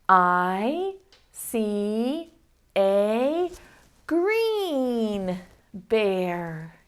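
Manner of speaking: slow choral reading. Shown as a demonstration. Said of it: "Say it nice and loud together".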